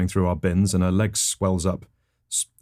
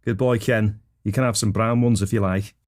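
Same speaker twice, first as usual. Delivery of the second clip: parent praising in Scouse; Scouse accent. Acted. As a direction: put on a Scouse dad. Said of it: "had a Scouse accent".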